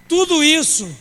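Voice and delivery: "Tudo isso" with "tudo" belted out high and loud; loud preached emphasis. Shown as a demonstration. Preacher to congregation, calling out "Tudo isso" loudly. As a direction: punch "Tudo" hard, falling off. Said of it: "repeated opening, preached loud".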